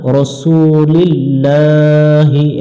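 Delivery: slow রসুলিল্লাহি with short ro; careful রসুলিল্লাহি, not রাসু; correct pronunciation. Shown as a demonstration. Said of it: "পড়া যাবে না".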